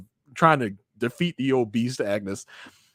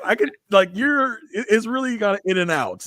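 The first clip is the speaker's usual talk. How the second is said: mock exasperated plea; 9 semitones higher, 4 dB louder than usual. Acted plea to actor.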